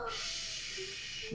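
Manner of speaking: unvoiced hush; whispered shush. Real, not acted. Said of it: "No talking".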